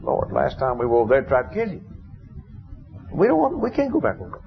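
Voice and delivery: rising worry, pleading not to go back; alarmed disciples. Retold or imitated. Disciples warning Jesus not to return, alarmed.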